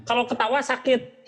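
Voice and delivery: laughing while wincing in pain; pained laugh, nose hurts; laughing through pain. Real, not acted. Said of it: "sakit ini".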